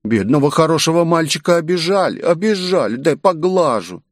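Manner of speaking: put-on high cooing baby talk to a dog. A narrator's reading. Girl petting the huge monster, high cooing baby talk. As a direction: coo like petting a puppy.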